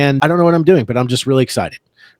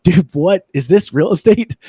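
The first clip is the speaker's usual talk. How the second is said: slow, climbing higher in disbelief; exasperated complaint; 5 semitones higher than usual. Retold or imitated. New agent venting to his team leader, slow exasperated disbelief. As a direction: vent it like you've been handed a disaster.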